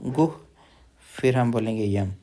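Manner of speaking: गुह then यम, said apart; split syllables. Shown as a demonstration. Teacher splits the word for students. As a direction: break गुह्यम into गुह and यम. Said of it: "पहले हा लेंगे हम".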